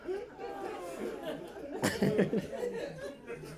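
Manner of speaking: high long cackling laugh; high cackle. Real, not acted. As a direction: cackle at the joke. Big laugh.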